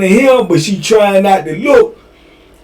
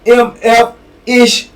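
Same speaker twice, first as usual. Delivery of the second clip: irritated warning; 6 semitones higher than usual. Retold or imitated. Female CO warns inmate.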